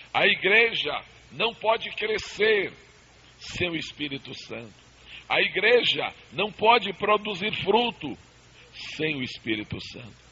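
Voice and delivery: rhythmic preaching cadence, rising then dropping. Acted. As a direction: preach it in a call and fall.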